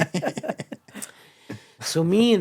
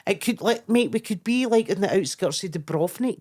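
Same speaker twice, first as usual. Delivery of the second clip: higher and louder incredulous rant; exasperated retort; 5 semitones higher, 4 dB louder than usual. Retold or imitated. Snapping back at the posh comic about Europe, exasperated. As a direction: let the disbelief spill over.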